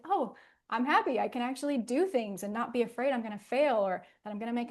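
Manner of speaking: put-on a freed child delighted she can play; happy relief. Shown as a demonstration. The healed exile announcing she's happy, bright with joy.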